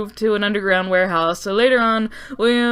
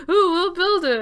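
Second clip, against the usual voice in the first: high-pitched gushing company voice; mock excited squeal; 8 semitones higher than usual. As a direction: squeal it out like a thrilled boss. Company excited in a retold scene.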